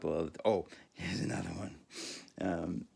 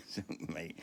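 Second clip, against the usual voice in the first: whisper; 6 dB quieter than usual. Real, not acted. Whispered aside about his wit.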